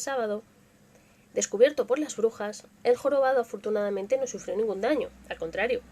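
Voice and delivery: lively folk-tale reading; reading witch legends to a live audience; story narration. A narrator's reading. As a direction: tell it like a village legend. Reads witch legend aloud.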